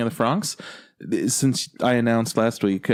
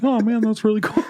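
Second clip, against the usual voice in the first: mock amazement; 12 semitones higher than usual. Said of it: "I'm like".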